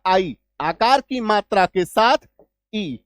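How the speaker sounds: आई sounded out slowly, then ई set apart after a pause; vowel sound demo. Shown as a demonstration. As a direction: spell out the glide आ to ई. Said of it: "इसका उच्चारण क्या होगा". (धीरे-धीरे आ और ई का उच्चारण)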